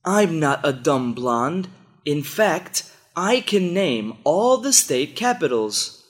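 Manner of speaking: mildly indignant protest, pitch climbing as it goes; a touch of wounded pride, acted out. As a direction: insist on it with mock indignation. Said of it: "He gets all indignant and claims".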